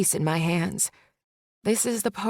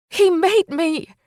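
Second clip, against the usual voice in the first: high, loud, slow scream; woman screaming the secret at last; 10 semitones higher, 7 dB louder, slower than usual. A narrator's reading. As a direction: tear the truth out in a shriek. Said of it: "I scream".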